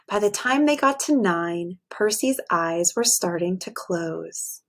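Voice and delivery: expressive bedtime story read; reading to children. A narrator's reading. Teacher reading a picture book to her class, storytelling voice. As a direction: read it aloud to a class of little kids.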